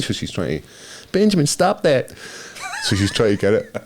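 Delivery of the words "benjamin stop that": higher put-on owner voice, breaking into a laugh; woman scolding her dog. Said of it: "the woman's like".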